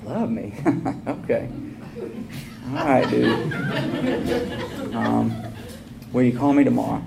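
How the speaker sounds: soft, laughing disbelief; half laugh at being told love; bemused laugh. Retold or imitated.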